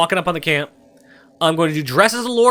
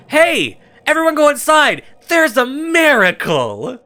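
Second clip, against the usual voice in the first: higher, louder call to the crowd, slowing on the last words; 9 semitones higher, 3 dB louder, slower than usual. Acted. Lying to the camp folk to lure them inside, a raised calling voice. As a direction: hail everyone like a fake herald. Luring people into exploding mine.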